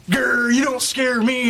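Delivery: slow, growly tough-mom imitation; tough Reba impression. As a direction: mimic her tough act. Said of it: "usually you're all".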